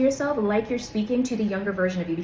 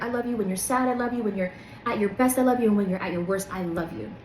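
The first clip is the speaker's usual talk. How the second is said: tender affirmation. Shown as a demonstration. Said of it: "you be like".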